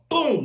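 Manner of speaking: quick mimicked knockout thud; imitated punch sound. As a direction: toss out a punchy sound effect. Imitating second knockout blow in story.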